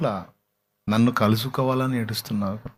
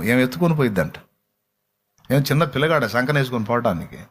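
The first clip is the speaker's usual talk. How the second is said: ordinary talk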